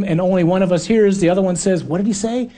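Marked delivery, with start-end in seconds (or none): 1.8-2.5 confused disciple. Retold or imitated. Disciple can't hear in storm.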